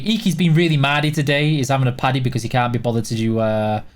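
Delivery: broad Yorkshire dialect, low-pitched; Yorkshire accent. Shown as a demonstration. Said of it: "that's some Yorkshire accent for you".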